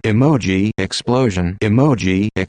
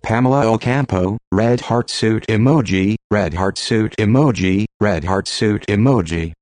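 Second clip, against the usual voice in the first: computer-generated voice. Acted. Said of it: "using a computer-generated voice".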